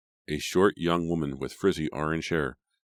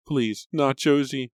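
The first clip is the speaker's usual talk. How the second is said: higher, louder, slow wailing plea; 11 semitones higher, 6 dB louder, slower than usual. A narrator's reading. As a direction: beg through the wail. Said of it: "still wailing".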